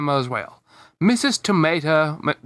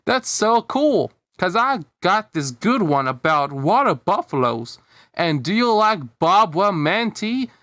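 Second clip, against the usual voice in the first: put-on excited child; 4 semitones higher than usual. Excited child chatters about songs.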